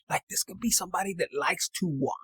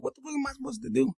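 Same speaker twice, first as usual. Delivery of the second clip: exasperated disbelief; 7 semitones higher, faster than usual. Acted. Left out, watching in disbelief.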